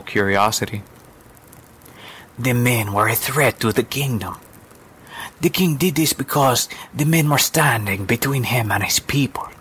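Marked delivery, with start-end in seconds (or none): 2.4-9.5 breathy, lightly voiced storyteller; storytelling woman. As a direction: explain the dark tale to a child. Woman explains the king's deed.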